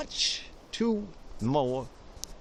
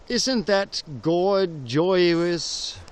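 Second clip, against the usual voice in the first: drawn-out admiration; much slower than usual. Acted.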